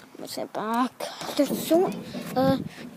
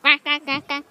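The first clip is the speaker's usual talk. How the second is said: lightly voiced duck quacks; duck quacking. Trying to be a duck, light quacking. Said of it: "Trying to be a freaking duck".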